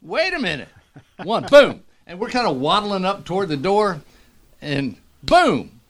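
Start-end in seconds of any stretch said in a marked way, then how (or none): 0.0-0.7 high, alarmed stop-right-there; startled whoa. Retold or imitated. A retold jumper sees others vanish, high startled whoa. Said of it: "It's like".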